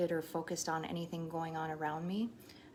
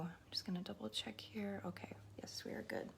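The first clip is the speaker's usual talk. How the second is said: much softer, half to herself; quiet aside; 3 semitones higher, 8 dB quieter than usual. Real, not acted. Checking the stream to herself.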